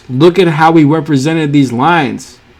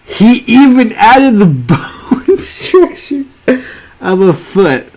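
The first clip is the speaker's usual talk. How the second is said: amazed squeal; 8 semitones higher, 4 dB louder than usual. Real, not acted. Reviewer marvelling at the artist's shoe drawing, high amazed squeal. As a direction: voice leaps up high, louder in delighted disbelief. Amazed at hidden foot bones.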